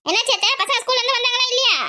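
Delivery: high-pitched, pressing question; insistent questioning. Acted. Daughter-in-law calls asking after children.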